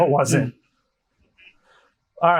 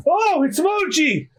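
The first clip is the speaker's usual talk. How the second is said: high, slow showman announcing himself; showman Moji; 10 semitones higher, slower than usual. Acted. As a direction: present yourself like a circus act.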